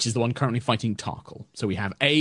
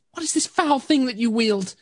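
high spirit voice calling out; a wary spirit calling from the water; unearthly voice; 12 semitones higher than usual. Acted. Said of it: "the voice kinda calls out".

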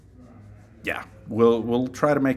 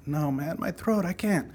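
raised, softer pleading excuse; mock reluctant refusal; 7 semitones higher, 5 dB quieter than usual. Voice actor begging off to fans, high mock pleading. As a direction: beg off in a higher, weaker voice.

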